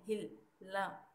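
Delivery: हिल and ला split, drawn out slowly; slow syllables. Shown as a demonstration. Teacher breaks the word apart for students, slowly. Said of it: "जैसे जाहिल है".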